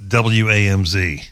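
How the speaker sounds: ordinary delivery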